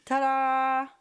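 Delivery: loud, high triumphant ta-da; proud loud reveal. Real, not acted. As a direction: announce the reveal loudly.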